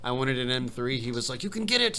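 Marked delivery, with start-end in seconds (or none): 1.4-2.0 put-on high German-accented insistence; Chip's German accent, pushing; mock German accent, high. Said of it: "your German accent".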